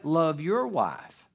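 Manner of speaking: slow, your leaned on; stress on YOUR. Shown as a demonstration. Pastor tells husbands whose wife to love, stressing your. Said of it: "emphasize that other word again".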